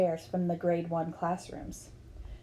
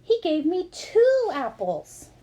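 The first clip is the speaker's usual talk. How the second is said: put-on slow, higher, grinning child's reply; smiling, pleased; 7 semitones higher, 5 dB louder, slower than usual. A narrator's reading. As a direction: savour it with a wide smile. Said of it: "David replied with a wide smile".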